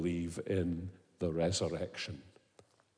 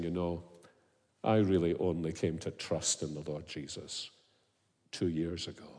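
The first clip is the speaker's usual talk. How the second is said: conspiratorial confession; 4 semitones lower, 6 dB quieter than usual. Retold or imitated. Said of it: "conspiratorially saying to me".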